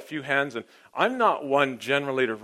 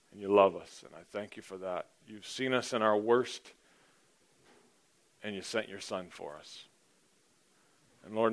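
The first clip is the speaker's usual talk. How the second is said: softer, reverent prayer voice trailing quieter; 5 dB quieter than usual. Acted. Pastor leading the congregation in an opening prayer, reverent and hushed. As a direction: pray it quietly and humbly.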